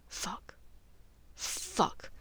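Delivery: breathless, barely voiced curse; whispered dread. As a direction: mutter it in sinking dread. Draco's dread inner curse.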